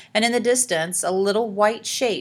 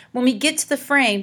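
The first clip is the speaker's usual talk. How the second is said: panted; 6 semitones higher, 4 dB louder than usual. A narrator's reading. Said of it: "she panted to Morton".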